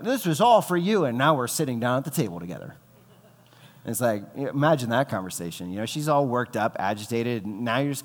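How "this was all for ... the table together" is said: passive-aggressive jab. Retold or imitated. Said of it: "You're like".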